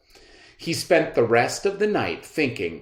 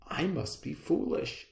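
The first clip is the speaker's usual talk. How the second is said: worried emperor panicking inside; panicked thought; 13 semitones higher than usual. Acted. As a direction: emperor fearing he looks foolish. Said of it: "he thought to himself".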